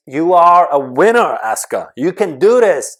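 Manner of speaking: loud, high self-motivation; rousing pep talk. Pretend. Speaker priming their brain in a power pose, loud and rousing. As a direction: pump yourself up with full conviction.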